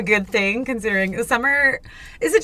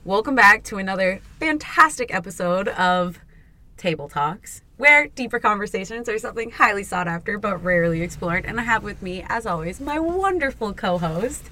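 podcast intro. Acted.

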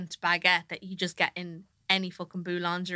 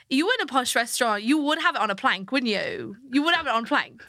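put-on Welsh accent; 4 semitones higher than usual. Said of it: "she keeps it like".

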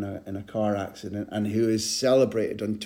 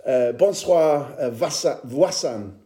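French greeting; 4 dB louder than usual. Retold or imitated. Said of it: "I went for French".

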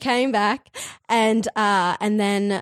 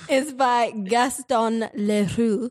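French pronunciation; 2 semitones higher, slower than usual. Shown as a demonstration. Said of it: "Oh, see, that was good".

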